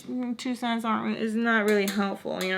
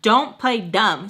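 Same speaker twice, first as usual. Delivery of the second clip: slow, louder retold warning; mad; 5 dB louder, slower than usual. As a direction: say it slowly, mildly mad. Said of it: "now I'm mad".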